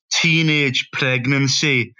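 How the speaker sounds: slow, deliberate mock Scottish; imitated Scottish punchline, stretched out; attempted Scottish accent. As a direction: put on a rough Scottish accent, slowly. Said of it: "And he go".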